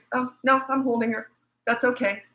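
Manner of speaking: lightly voiced parent reassurance. Shown as a demonstration. Models parent answering a toddler.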